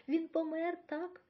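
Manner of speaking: high, loud cry of alarm; shout. A narrator's reading. Boy sees his parents on the platform, shouting in alarm. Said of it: "закричав я".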